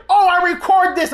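mimicking the aunt. Aunt threatening to record, in a high mock voice. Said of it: "and she's like".

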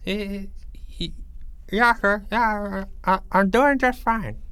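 a hint of a woozy boy; groggy kid. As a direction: sound dopey after surgery. Boy after dental surgery, podcast.

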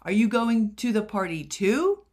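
eager surprised blurt. Shown as a demonstration. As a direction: burst out with it, eyes bright. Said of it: "he blurted, his eyes bright with surprise".

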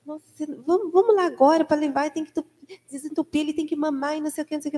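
lightly acted alarm; retold panic. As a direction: imitate a nurse fretting and rattling on. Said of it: "ela toda apavorada".

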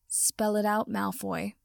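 spoken through gritted teeth; through clenched teeth. Acted. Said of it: "Potter said through clenched teeth".

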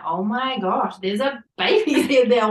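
breathless, laughing amazement; disbelieving delight, a laugh in it; amazed. Retold or imitated. To her husband in the birth pool, amazed and laughing. Amazed at feeling baby's head.

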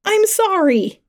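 high, frantic apology; panicked yell. A narrator's reading. Attacker apologising mid-stabbing, high panicked yell. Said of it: "I yelled, still in a panic".

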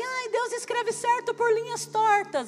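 high, drawn-out parroting of a saying; mocking quote. Pastor imitates someone repeating a saying she rejects, mocking quote.

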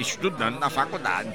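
normal talking voice

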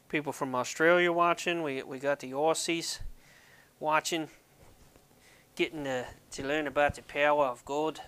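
amateur attempt at an Australian accent; slightly butchered Australian accent; Aussie accent. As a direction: put on a playful Aussie accent. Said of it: "good Aussie accent".

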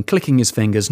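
usual speaking voice

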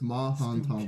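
"Mahantongo" as three chunks, Ma-han-tongo; broken into three. Shown as a demonstration. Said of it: "Just, just break it into, like, three".

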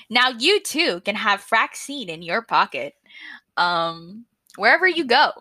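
ad voice. Shown as a demonstration. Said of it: "what my ad would sound like".

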